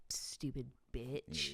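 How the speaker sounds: slow, breathy whispered insult. Pretend. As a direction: hiss it under your breath. Whispered mock insult to dad.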